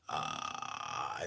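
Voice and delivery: low breathy held growl; soft low fry growl on an open vowel; scream demo. Shown as a demonstration. Coach showing where the scream starts, low growl. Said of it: "And it goes from".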